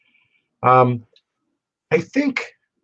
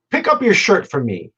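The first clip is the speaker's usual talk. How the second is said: put-on high Alabama-accented order; imitated Southern judge; 6 semitones higher than usual. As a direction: mimic a Southern judge giving instructions. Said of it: "spoke like he was twelve Southerners from Alabama".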